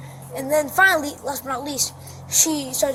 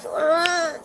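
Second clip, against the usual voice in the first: higher-pitched "ugh" in imitation; retold distressed groan; 4 semitones higher than usual. Child retells watching mom chase brother, imitated groan. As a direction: act out a dismayed groan.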